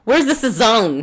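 slow, drawn-out mock Spanish accent; playful faux-Spanish accent, slowly; fake Spanish accent. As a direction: stretch the food name in a put-on Spanish accent. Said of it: "can't say it in that accent".

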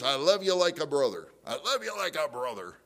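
imitating a smiling, falsely fond friend; smiling friendliness. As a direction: say it with a put-on smile. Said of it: "have a smile on his face".

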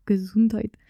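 lightly imitated deep German sneeze blessing; a hint of a low mock-German voice. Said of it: "řekne takovým hlubokým hlasem".

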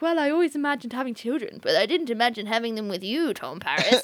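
teasing, dropping low on the name; flirty Janeway. Retold or imitated. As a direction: imitate an awkwardly flirty captain. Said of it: "flirty, messed up conversation".

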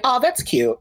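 high, cooing imitation of a stranger; mock condescending reply. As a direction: parrot the patronizing praise. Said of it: "I get".

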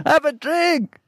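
laid-back, inviting, a bit mocking; relaxed local guy. African guy offers a drink.

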